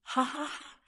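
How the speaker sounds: high, soft mock-evil laugh; sinister laugh. A narrator's reading. Nia Lin gloats over Long Fei's fate, sinister laugh. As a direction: give a small, gloating villain laugh. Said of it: "Nia Lin laughed sinisterly".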